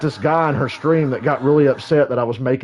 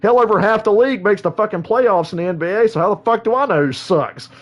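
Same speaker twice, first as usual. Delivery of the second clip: mock-exasperated higher rant; retold rant; 6 semitones higher than usual. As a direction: vent at the troll in a retold rant. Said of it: "I'm like".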